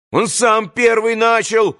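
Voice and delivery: high, slow, whining protest; irritated child's voice. A narrator's reading. Boy in red shirt blames the other, irritated child's voice. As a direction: cry out like an annoyed little boy. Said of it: "раздражённым детским голоском".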